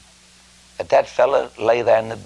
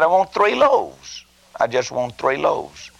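pleading friend; 5 semitones higher, slower than usual. Acted. Voicing the hungry pleading friend.

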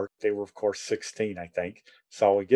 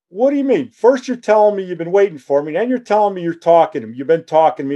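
put-on drunk old man; 5 semitones higher, 4 dB louder than usual. Drunk father confused, arguing.

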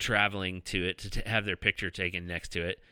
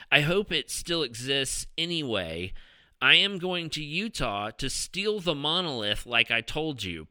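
shouting capitalized words; 5 semitones higher than usual. Pretend. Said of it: "imagine me screaming this in your face".

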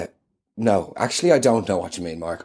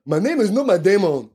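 intense, higher action-hero growl; Jason Bourne voice; 7 semitones higher than usual. Acted. Guest insisting he is Jason Bourne, intense action-hero voice. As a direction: play the brooding spy, dead serious. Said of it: "Matt, rein it".

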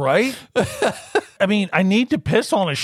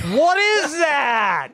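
baffled; 9 semitones higher, much slower than usual. Real, not acted. Puzzled at own writing.

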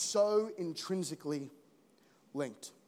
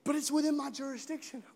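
higher, kindly; Jesus kindly answering, higher; calm Jesus; 9 semitones higher than usual. Retold or imitated. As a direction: answer kindly but firmly. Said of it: "And he's like".

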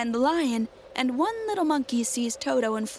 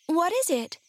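higher, surprised little question; wondering storybook-girl voice, pitched up; 7 semitones higher than usual. A narrator's reading. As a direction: ask as a girl caught by surprise. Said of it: "answered Dorothy in surprise".

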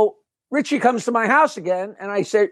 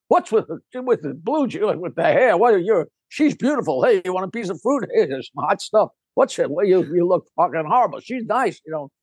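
Rodney Dangerfield impression. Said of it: "that impression is fantastic".

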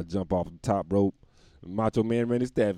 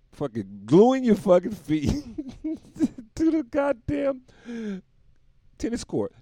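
high, loud, slowed incredulous yelling; exasperated rant; 10 semitones higher, 4 dB louder than usual. Real, not acted. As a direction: scream it in disbelief. Peak rant about gluing feet.

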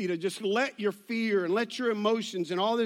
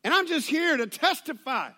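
high, loud testifying cry; loud, ringing preacher's call; preaching at full force; 7 semitones higher, 7 dB louder than usual. Real, not acted. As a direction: proclaim it to the whole room.

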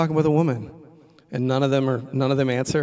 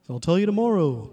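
higher and louder, insisting; firm insistence; 5 semitones higher, 4 dB louder than usual. Retold or imitated. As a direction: hold your ground, raised. Teacher insisting in quarrel.

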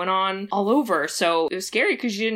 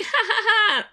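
mock laugh; 13 semitones higher, faster than usual. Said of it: "he does the weird voice and she's like".

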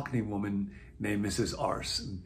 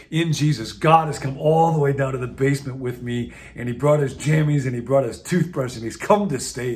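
raised, louder storyteller's delivery; rousing retold preaching; 3 semitones higher, 6 dB louder than usual. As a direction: build it like a preacher's joyful punchline. Retelling a preacher's rousing story climax.

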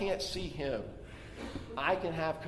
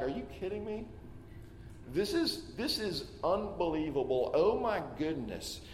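amazed disbelief; 3 dB quieter than usual. Retold or imitated. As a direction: play the stunned disciple, slowing on the last words. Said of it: "which means in the Greek something like".

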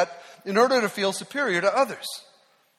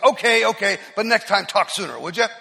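a touch louder, mock-exasperated okay; grudging reply; 2 semitones higher, 5 dB louder than usual. Answering his conscience with a grudging okay. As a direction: brush off the voice, half-annoyed. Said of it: "And I said to the little voice".

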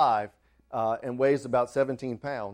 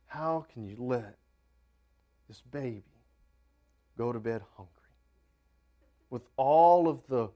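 tender dad. Retold or imitated. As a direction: gently ask yourself how. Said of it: "But the dad says".

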